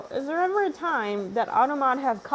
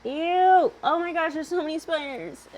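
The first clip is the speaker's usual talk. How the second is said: grossed out; 6 semitones higher than usual. Real, not acted. Sees many spiders.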